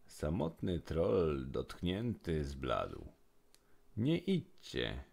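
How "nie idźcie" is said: a lonely troll's gentle plea; polite plea. A narrator's reading. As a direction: ask them gently not to go, drawn out. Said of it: "prosił grzecznie".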